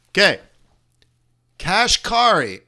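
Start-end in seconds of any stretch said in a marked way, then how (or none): 1.6-2.6 slow and deliberate, a bit louder; careful pronunciation. Shown as a demonstration. Sounding out the Fed president's name Kashkari carefully. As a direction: say Kashkari steadily, syllable by syllable. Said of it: "You guys are gonna laugh".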